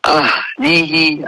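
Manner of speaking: أهله with the ha clearly sounded. Shown as a demonstration. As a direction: make the ه in أهله heard. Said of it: "हाँ की sound भी आएगी".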